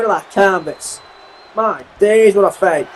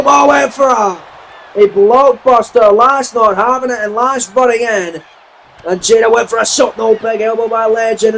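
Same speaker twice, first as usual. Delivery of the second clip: wrestling commentator. Real, not acted. Live ring commentary.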